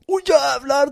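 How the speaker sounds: high squealed "åh, jävlar" through a laugh; laughing mock amazement; mock amazed exclaim. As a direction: play up his shock, laughing.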